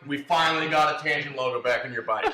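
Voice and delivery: imitating Rich. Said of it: "Surely Rich has come to you".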